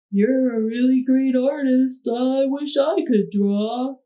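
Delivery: a hint of a wistful little boy; light, hopeful boy voice; little boy's voice. A narrator's reading. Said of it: "he said".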